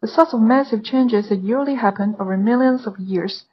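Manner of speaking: steady, clear exam reading; model read-aloud. Shown as a demonstration. Teacher reads the model passage aloud for students, clear and steady. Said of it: "刚刚我们已经听过示范了".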